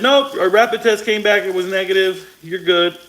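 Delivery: high, chipper dismissal; breezy doctor brushing him off; mock doctor voice. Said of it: "Doctor said".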